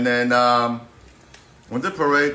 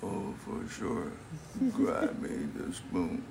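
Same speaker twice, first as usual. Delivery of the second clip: soft, slow Valley girl attempt; hesitant mock Valley girl; 5 semitones higher, 12 dB quieter, slower than usual. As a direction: drawl it out quietly like a Valley girl. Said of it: "you're the worst Valley Girl".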